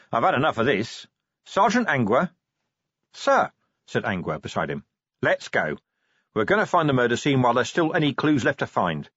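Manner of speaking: lightly voiced commander taking charge; fed-up commander. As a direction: announce you've had enough. Vimes ends the meeting.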